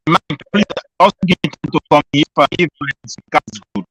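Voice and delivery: ordinary talk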